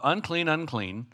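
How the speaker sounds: mild mock call; calling out warning. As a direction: cry the warning out to passersby. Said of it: "They had to call out".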